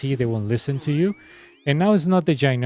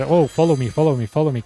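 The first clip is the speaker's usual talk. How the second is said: louder, whiny mock plea; mock begging; 2 semitones higher, 5 dB louder, faster than usual. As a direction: parody a streamer begging for follows. Mocking streamers who beg for follows.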